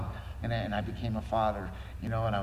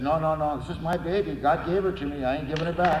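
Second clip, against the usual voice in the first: louder and higher, firm; emphatic refusal; 6 semitones higher, 6 dB louder than usual. Retold or imitated. Father telling the guys his baby stays, loud and firm. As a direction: insist she is his.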